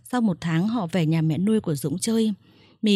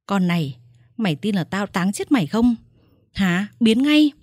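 angry threat; 4 dB louder than usual. Acted. Man throwing her out angrily.

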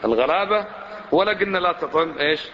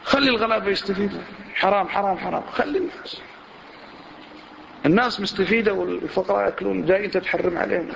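mock outraged protest, pitch climbing higher; indignant objection; 4 semitones higher than usual. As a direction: act out a scandalised objector. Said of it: "يجيك بكل استنكار".

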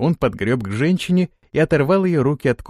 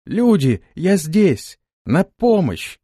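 high, louder call into the fog; 7 semitones higher, 4 dB louder, much slower than usual. Acted. Answering the cry for help across the swamp, loud call. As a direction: shout so they can find you. Anton? calling out to the voice.

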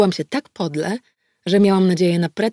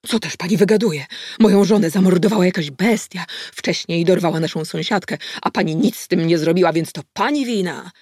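a louder, blustering angry man; bellowed; 4 dB louder than usual. Acted. Suspect shouts blame at the detective, blustering. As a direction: roar the accusation back at her. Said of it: "huknął".

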